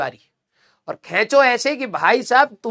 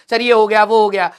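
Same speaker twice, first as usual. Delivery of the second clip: put-on scared child; 6 dB louder than usual. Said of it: "बच्चा डरता है".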